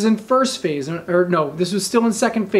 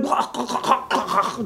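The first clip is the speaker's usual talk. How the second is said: imitated choking; 3 semitones higher, 5 dB quieter than usual. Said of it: "drowning and choking on all this water".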